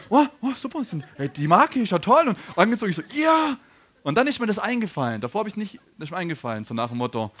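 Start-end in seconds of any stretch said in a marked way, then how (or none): 0.1-3.6 mock-gushing, higher and louder with a laugh; delighted reaction. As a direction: act out giddy delight over a gift. Retelling his delighted reaction to shoes.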